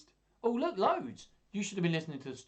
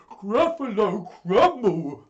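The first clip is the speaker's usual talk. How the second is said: high, very loud, slow cry; horrified Gruffalo; 8 semitones higher, 14 dB louder, slower than usual. Acted. Gruffalo learning he may be eaten, horrified shout. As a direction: wail both words in terror. Terrified Gruffalo echoes threat.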